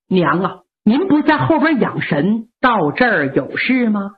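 polite son greeting his mother; dutiful son. Acted. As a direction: son asking his mother why she came.

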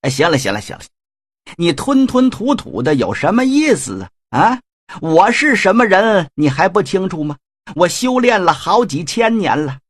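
sly villain getting pushy; pushy Shen Gongbao. Acted. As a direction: press him impatiently. Shen Gongbao presses, boasts.

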